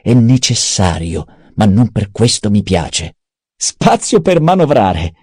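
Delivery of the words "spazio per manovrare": high, drawn-out taunting repeat; mockery in a raised, stretched-out singsong; mocking echo. A narrator's reading. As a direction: parrot the words back slowly in a high, teasing voice. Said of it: "lo canzonò Peter".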